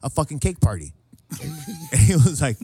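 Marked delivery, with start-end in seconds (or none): 0.0-0.9 raised, insistent comic threat; mock defiant payback. Host promising buddy revenge party, mock defiant. Acts vengeful reply to buddy.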